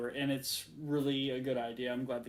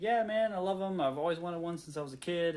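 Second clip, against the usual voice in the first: eager car lover; 4 semitones higher than usual. Retold or imitated. Voicing car owner's enthusiasm.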